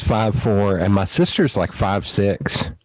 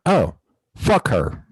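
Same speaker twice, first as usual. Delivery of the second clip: sweet Southern lady; slower than usual. Retold or imitated. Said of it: "the little sweet Southern lady going".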